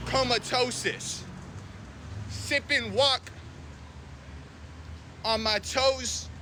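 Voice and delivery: slow sing-song rhyming; slow rhyming drawl. Pretend. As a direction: draw out the rhymes.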